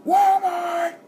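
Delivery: high, loud shouted Irish impression; put-on Irish trash-talk shout; mock Irish accent. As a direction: yell it in a bad Irish accent. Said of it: "almost started talking in an Irish accent".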